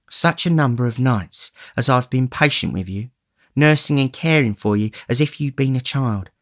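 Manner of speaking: woman's tenderness, rising to a plea; tender coaxing. Acted. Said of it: "a woman's tenderness".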